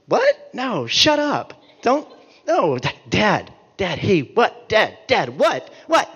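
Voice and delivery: fed-up dad snapping back; hammed-up annoyed what; exasperated dad. Dad's exasperated retort, acted.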